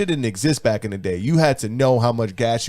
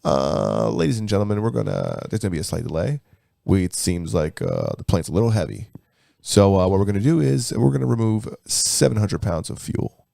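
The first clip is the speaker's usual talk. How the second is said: pilot voice; 4 semitones lower than usual. Retold or imitated. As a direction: imitate a bored pilot over the intercom. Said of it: "same stupid fucking pilot voice".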